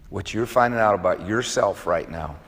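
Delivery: softly and evenly, "finding" gently leaned on; quiet reassurance at an ordinary pace; soft tender line. Shown as a demonstration. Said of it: "I'm gonna say it again".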